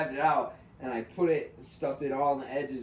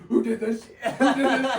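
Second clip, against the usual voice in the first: angry shouting; 6 semitones higher, 7 dB louder than usual. Retold or imitated.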